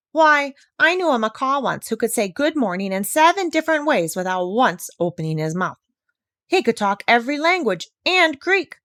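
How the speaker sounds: put-on a proud old bird who thinks people are fools; indignant old parrot.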